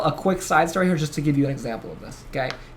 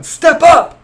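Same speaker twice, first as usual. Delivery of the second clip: high, loud call to the crowd; rallying yell; 13 semitones higher, 12 dB louder than usual. Retold or imitated. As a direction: roar it out to eight thousand people. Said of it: "And everyone yells".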